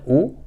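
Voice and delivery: "U" said with pursed lips; rounded u. Shown as a demonstration. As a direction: push the lips forward on "U". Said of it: "só que com biquinho". ("u" com biquinho)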